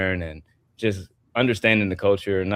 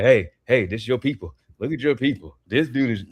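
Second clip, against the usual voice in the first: teasing hype; 2 semitones higher than usual. Retold or imitated. Ribbing a Nigerian friend whenever Oba wrestles, excited teasing. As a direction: hype up your friend about his people. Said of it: "I'm like".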